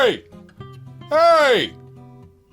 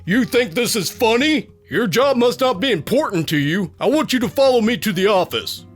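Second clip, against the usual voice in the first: raised, high-pitched reprimand; irate manager demanding obedience; angry boss; 6 semitones higher than usual. A narrator's reading. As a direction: jump on them with an indignant scolding. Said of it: "he jumps on me".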